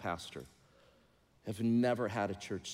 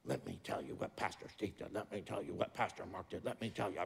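whispered, much lower gossip; 3 semitones lower, 8 dB quieter than usual. Retold or imitated. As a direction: lean in and whisper the rumor like a secret. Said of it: "gossip voiced in sermon".

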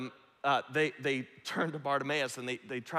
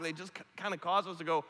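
normal talking voice

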